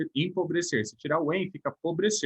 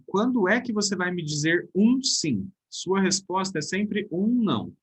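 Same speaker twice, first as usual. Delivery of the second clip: slow example reading; 3 semitones higher, slower than usual. Shown as a demonstration. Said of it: "olha o exemplo que tem aí embaixo".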